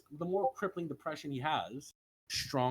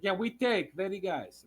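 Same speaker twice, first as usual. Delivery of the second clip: lightly mimicked Russian accent; louder mock-Russian callout; Russian-sounding Wade; 3 semitones higher, 3 dB louder than usual. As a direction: imitate a teammate in broken Russian-style English. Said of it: "making Wade sound like he's Russian".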